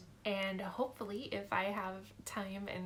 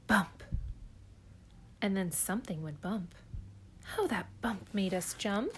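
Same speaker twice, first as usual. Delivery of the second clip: storybook narration. Acted. Reads Dr. Seuss aloud.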